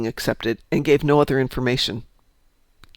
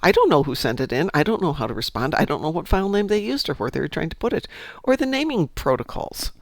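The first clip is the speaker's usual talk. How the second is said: quoting the tech; 4 semitones higher than usual. Retold or imitated. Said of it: "and he said".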